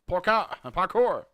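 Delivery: loud, high yell of Parkour!; triumphant shout; excited cheer. Real, not acted. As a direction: cheer the stunt like a hype man. Cheering a jump in game.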